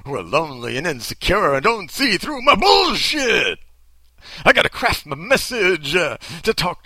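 hammed-up evangelist punch on the last line; preacher voice. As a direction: slip back into the revival preacher. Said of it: "I can't talk like this".

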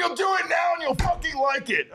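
high, screamed fake threat at fans; mock abusive yell. Host yelling at fans to come watch, mock abusive shout. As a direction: yell it like a hammed-up bully. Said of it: "Just abusively yelling".

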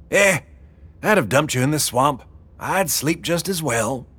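put-on high, careless old woman; Wilma's voice. A narrator's reading. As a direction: shrug it off, callous.

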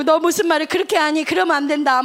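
loud, hurt scolding. Retold or imitated. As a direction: scold her for laughing at the loss. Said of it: "막 이러면서 언니가 막 뭐라 했어".

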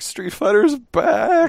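very high, slow, hyped-up cry; hyped shout. Retold or imitated. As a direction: scream it out, overjoyed fan. Retold hyped reaction, college lab.

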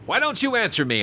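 high, sharp indignant question; rough demand. Acted. Angry passenger demanding the silent steward answer. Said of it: "I said roughly".

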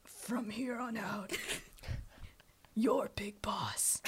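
slow whispered gruff line; Snake impression. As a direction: hush it like a grizzled soldier. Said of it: "I'm gonna try".

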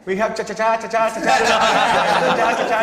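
stuttering on chamberete; imitating a stuck stutter; mock stutter. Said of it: "y lo decían".

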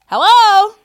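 high, loud bright hello; loud sing-song phone greeting; calling out hello. Real, not acted. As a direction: answer the caller with a shout. Answering call.

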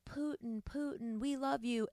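high, soft chant of adoration for Putin; mock adoring crowd. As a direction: swoon over the leader like a smitten nation. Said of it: "the whole country was like".

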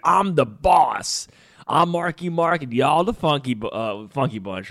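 high, drawn-out mock swagger; Jason Sudeikis bit. Retelling the movie scene to his wife in a hammed-up boast. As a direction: ham up a cocky boss in slow motion. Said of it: "He's like".

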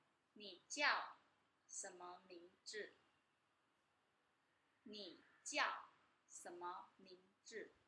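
slow Mandarin with a Guangdong accent. Shown as a demonstration. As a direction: teach it slowly, Guangdong-accented sibilants. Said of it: "someone from Guangdong".

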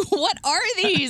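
high, slow mock-baffled question; retold bewilderment. Retelling bewilderment at finding coins.

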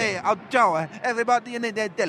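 hammed-up Italian accent; mock Italian, playful and lilting. Co-host joins in quoting Pirlo, Italian accent. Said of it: "Italian impression".

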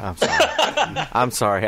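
sorry, through a laugh; laughing apology. Real, not acted. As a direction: apologise while cracking up. Laughing apology after rant.

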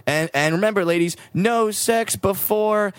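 host voice. Retold or imitated. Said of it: "the host goes".

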